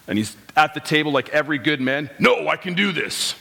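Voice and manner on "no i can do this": lightly voiced stubborn little boy; a hint of a frustrated young son's voice; imitating his son. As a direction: mimic the kid insisting he's got it. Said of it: "It's pretty much what his voice sounds like".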